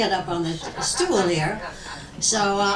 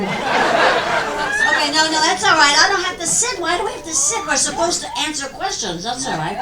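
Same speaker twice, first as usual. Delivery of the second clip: normal talking voice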